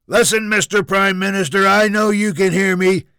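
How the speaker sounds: high, loud tirade; furious shouted threats. Acted. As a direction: yell so it carries into the next room. Junior yells threats at Prime Minister.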